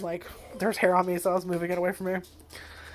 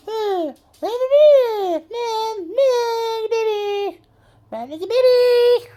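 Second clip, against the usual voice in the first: whiny dog voice; 8 dB louder, much slower than usual. Pretend. Voicing the whining dog.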